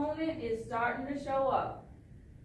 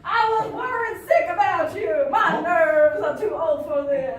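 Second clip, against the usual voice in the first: worried mother; 3 semitones higher, 7 dB louder than usual. Acted. Role-play of worried mother, louder.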